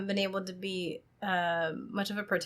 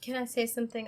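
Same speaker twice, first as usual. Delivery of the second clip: yawning; 3 semitones higher, 5 dB quieter, faster than usual. Real, not acted. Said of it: "I'm sorry I keep yawning".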